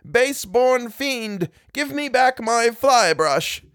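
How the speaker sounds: high, slow, ringing challenge; shouted command. A narrator's reading. Priest in the courtyard challenges the devil, shouting. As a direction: call out the demon with drawn-out force. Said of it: "shouted out".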